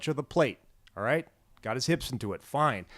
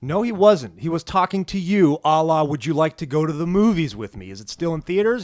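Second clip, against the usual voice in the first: mock accusation; 3 semitones higher, 5 dB louder than usual.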